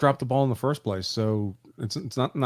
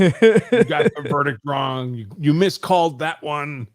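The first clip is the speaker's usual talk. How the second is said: slow, laughing mock accusation; mock accusing voice; 3 semitones higher, 4 dB louder, slower than usual. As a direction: drag it out mockingly while laughing.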